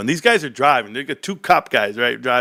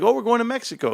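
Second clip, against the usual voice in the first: mom's voice; 13 semitones higher, faster than usual. Retold or imitated. Mom voiced in retold story.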